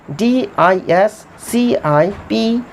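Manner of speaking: slow, letter-by-letter dictation; measured dictation of each letter; spelling out letters. Shown as a demonstration. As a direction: spell it slowly for the class. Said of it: "डिसिप्लिन".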